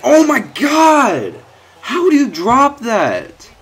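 very high, slow, loud laughing outcry; real laughing disbelief; laughing shout. Real, not acted. Dropped interception reaction.

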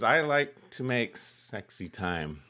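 put-on a light, slowed Kazakh Borat accent; mock Borat accent. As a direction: drag the words out in a half-hearted Borat accent. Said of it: "I wouldn't do the accent".

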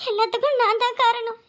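weepy, voice catching on the blame; wife blaming herself through tears; tearful self-blame. Acted. Wife to husband after his harsh words, tearful. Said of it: "என்னத்துக்கு அழுதுகிட்டு இருக்க".

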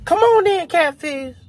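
high, loud calling-in voice; imitated woman calling. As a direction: call out like her inviting him in. Girl calls him in.

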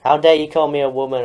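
loud, offended outburst; indignant protest. Acted. YouTuber objects to being called a woman, indignant. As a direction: protest loudly, as if deeply insulted.

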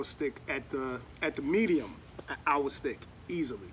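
words near drink rim; speaking with glass at lips. Real, not acted. Seen 0: Raises whisky glass to mouth level while speaking, between sips.

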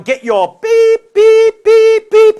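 loud order turning into high censor beeps; bleeped-out swearing miner. Retold or imitated. Miner swearing at his donkey, loud imitated bleeps. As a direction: bark the order, then voice the bleeps yourself. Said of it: "the miner going".

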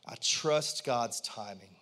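a low, deliberate prompt for the congregation to repeat; slow lead-in. Shown as a demonstration. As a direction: say it slowly so they can follow. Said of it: "I want everyone to say out loud".

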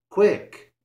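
high, loud urgent shout; urgent call. A narrator's reading. Johnny urges Pippin to flee the cat, shouting. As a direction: call out to hurry him. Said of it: "called Johnny Town Mouse".

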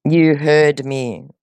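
drawn-out, slow YOU HEARD ME; slow, insistent. Real, not acted. Caller insisting the scammer heard, slow and firm. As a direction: spell it out slowly, word by word.

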